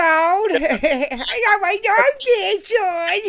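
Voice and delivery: mock voice collapsing into laughter, slow; teasing a friend, breaking into laughter; laughing mock. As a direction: repeat the tease while cracking up. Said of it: "Mark's like".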